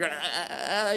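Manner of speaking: drawn-out stammering "uh"; mock tongue-tied noise; shocked stammer. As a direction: imitate being lost for words. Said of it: "Shocked and stammered".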